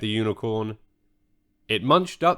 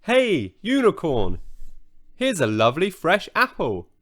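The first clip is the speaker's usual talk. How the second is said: put-on girl calling out, pitched higher; lightly acted call to lure the unicorn; 5 semitones higher than usual. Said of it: "Then she called out".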